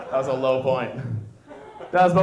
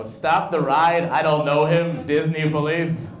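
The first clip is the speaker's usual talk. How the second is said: mock panic; 2 semitones higher, 5 dB louder, slower than usual. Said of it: "weird philosophy".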